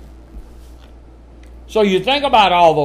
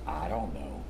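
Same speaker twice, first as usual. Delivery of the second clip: put-on much lower, much softer mumbled kid reply; sulky kid; 13 semitones lower, 16 dB quieter than usual. Child answering parent about mess, mumbled. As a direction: shrug it off like a guilty child. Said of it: "what you always ask kids".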